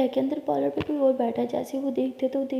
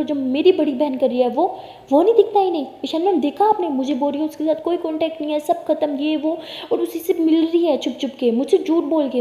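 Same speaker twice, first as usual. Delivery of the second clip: angry shouting; 4 semitones higher, 5 dB louder than usual. Acted. Sisters' heated quarrel in car.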